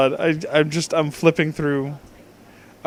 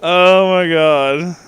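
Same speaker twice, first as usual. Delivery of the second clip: drawn-out disbelief; 3 dB louder, slower than usual. Real, not acted. Overwhelmed by text.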